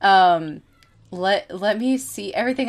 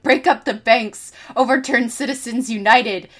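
mock dirty snarl; 3 semitones higher than usual. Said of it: "snarling things in a dirty tone".

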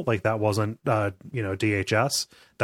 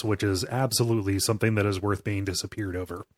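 dry, understated sarcasm; deadpan mock approval; sarcastic. Real, not acted. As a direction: state the absurd as if sincere. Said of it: "I'm being sarcastic".

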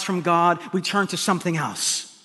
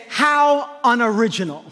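mock sniffy scorn; 3 semitones higher than usual. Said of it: "she doesn't say".

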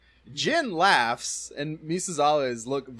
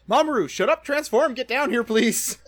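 high, loud exasperated plea; mock desperate shouting; 12 semitones higher, 8 dB louder than usual. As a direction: yell it up to someone, hammed-up and urgent. Acted team yelling at Mamoru.

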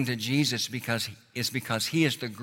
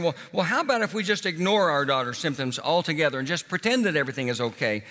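lightly voiced defiant parent; 3 semitones higher than usual. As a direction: argue it away like a parent in denial. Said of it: "you as a parents respond by saying".

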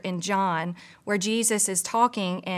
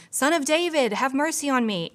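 higher-pitched retold plea; half-raised cry for mercy; mild imitated shout; 5 semitones higher than usual. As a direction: imitate calling out over a crowd, not full volume. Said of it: "He starts shouting".

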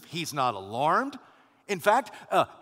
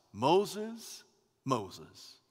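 gentle endearment; 5 dB quieter than usual. Acted. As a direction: call him with quiet affection. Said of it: "It communicates endearment, affection, friendship".

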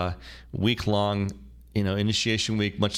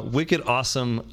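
slower Boston accent, stretching wicked awesome; Boston accent retry; 3 semitones higher, slower than usual. Shown as a demonstration. Host retries his Boston accent for a listener, slow. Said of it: "that's a terrible Boston accent".

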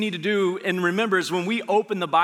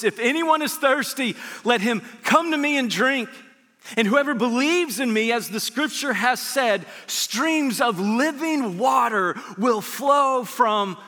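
raised, higher preaching voice; 5 semitones higher than usual. Acted. Pastor voicing Jesus calling out at the feast, raised and high. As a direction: call it out like a proclamation.

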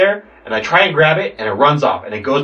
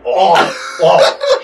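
imitated retching, pushed a bit louder; mock retching; 5 semitones higher, 3 dB louder than usual. Roommate sprayed by a skunk, mock retching. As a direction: heave out a mock gag. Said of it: "Chandler starts leching".

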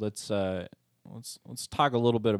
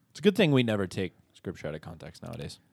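sarcastic; 3 semitones lower than usual. Acted. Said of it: "That was sarcasm".

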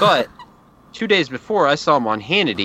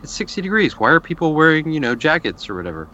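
mocking joke; 5 semitones higher than usual. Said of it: "I made the same jokes".

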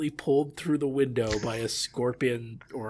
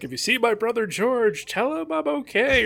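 high, loud quoted line; mock high quote; 11 semitones higher, 4 dB louder than usual. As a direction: lightly voice the character. Quoting Danny's line.

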